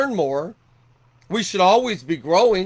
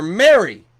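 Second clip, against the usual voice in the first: louder, called out tenderly; Jesus calls out to Mary, louder; calling her name; 7 dB louder than usual. Acted. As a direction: call Mary by name so she turns.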